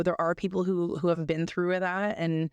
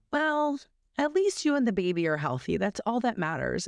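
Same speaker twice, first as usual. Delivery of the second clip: quoting people; 3 semitones higher than usual. Retold or imitated. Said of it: "when people say".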